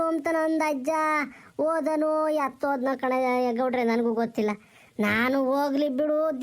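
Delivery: put-on old village grandmother wailing for her lost husband; old woman's lament. Old granny crying to the village for her missing husband, wailing lament. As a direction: plead and wail like a grieving old granny.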